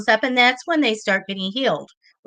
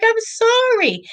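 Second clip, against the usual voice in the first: sympathetic apology; 13 semitones higher, slower than usual. Retold or imitated. Telling client she lost.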